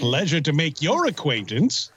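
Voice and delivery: lightly put-on, swooping formal greeting; a hint of a hammed-up character; Damian Prince. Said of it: "that's my Damian Prince impression".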